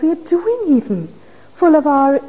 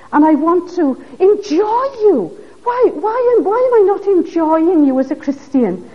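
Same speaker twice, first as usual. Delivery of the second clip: pleading, raised-pitch prayer to God; crying out; 3 semitones higher than usual. Acted. Believer confessing to God a joyless Christian life, crying out. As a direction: plead with the Lord as a troubled believer. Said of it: "then we must cry for them".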